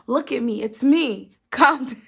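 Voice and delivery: dramatic, insistent imitation of a manager; movie-style plea. Manager pleading with an upset cashier, mock movie drama. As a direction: plead like a film scene, breaking into a laugh. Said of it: "doing one of them movie things".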